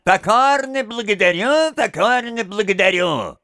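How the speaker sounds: a lightly voiced nasal mock thanks; nasal twang. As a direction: mimic the little freak's nasal whine. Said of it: "мерзким голосом гнусавит".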